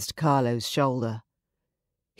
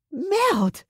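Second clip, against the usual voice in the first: much higher, sharp swear; French curse. A narrator's reading. Mist swearing while throwing up.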